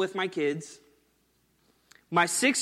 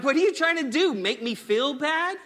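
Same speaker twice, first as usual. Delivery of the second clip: put-on indignant kid; 7 semitones higher than usual. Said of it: "Elijah's like".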